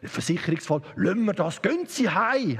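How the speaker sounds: police sergeant. Acted. Sergeant waving off the man's confession, lightly voiced low officer. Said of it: "hat der Wachmeister gesagt".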